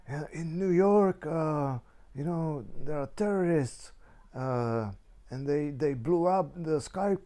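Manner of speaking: high, alarmed mother's voice; mom's worried report. Retold or imitated. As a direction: relay the news as his frightened mom. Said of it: "mom voiced in phone story".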